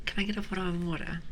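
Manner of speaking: imitating chat's teasing British accent; lightly put-on British accent, as chat would mock it. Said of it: "we don't all sound like that".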